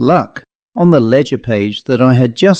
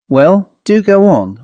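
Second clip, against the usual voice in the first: urging; 6 semitones higher than usual. A narrator's reading. Narrator urging the man to get on with his ghost story. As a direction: hurry him along, mildly eager. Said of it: "I urge".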